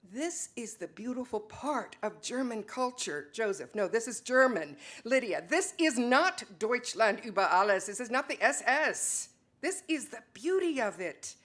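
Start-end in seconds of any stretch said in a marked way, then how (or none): 3.9-11.4 raised voices. Acted. Couple argues over German culture.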